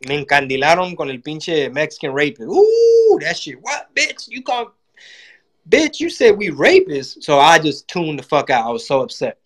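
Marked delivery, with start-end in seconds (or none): 2.5-3.2 very high, loud startled ooh; shocked ooh. Real, not acted. Comic yelping at Trump's rapist remark. 3.6-7.2 higher indignant comeback; offended retort. Retold or imitated. Comic snapping back at Trump, offended.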